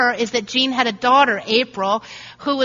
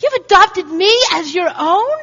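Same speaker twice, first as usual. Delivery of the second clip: awestruck; 5 semitones higher than usual. Pretend. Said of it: "our attitude should be".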